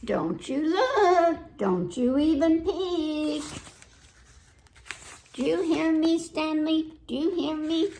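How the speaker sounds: mock-stern child ordering the dog away; bossy girl. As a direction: scold him like a bossy big sister. Girl warning Stanley.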